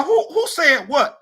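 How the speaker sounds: slow, high, loud angry question; retold angry demand. Comic retelling to HR of an angry demand. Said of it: "I got mad".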